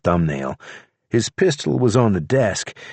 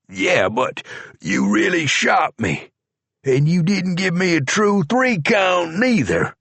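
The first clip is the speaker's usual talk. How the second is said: higher, complaining protest; aggrieved; 11 semitones higher than usual. A narrator's reading. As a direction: whine it, pitched up. George protesting being shot.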